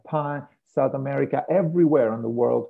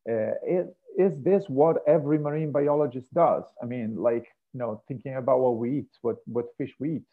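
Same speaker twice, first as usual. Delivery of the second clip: lightly voiced audience member wondering aloud; imagined listener's question; faster than usual. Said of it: "some of you might actually ask".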